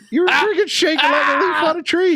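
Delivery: high-pitched mock exclamation; retold incredulous teasing. Retold teasing of shaken brother.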